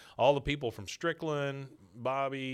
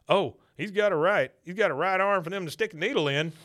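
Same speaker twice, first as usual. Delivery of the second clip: smug sheriff; 7 semitones higher, 7 dB louder than usual. Retold or imitated. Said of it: "the shittiest thing the sheriff could say".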